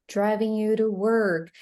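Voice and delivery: "to" tapped into "you"; tap sound. Shown as a demonstration. Teacher shows learners driving you to work, tap sound. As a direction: link "you to" with a light tap. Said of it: "like a tap sound".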